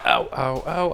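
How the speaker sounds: sharp ows of real pain. Real, not acted. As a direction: yelp at stepping on something barefoot. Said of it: "I should really be wearing shoes in here".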